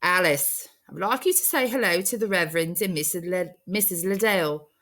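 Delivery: lightly voiced formal warden. Warden introducing Alice to the Liddells, mildly formal voice. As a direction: announce the visitors politely.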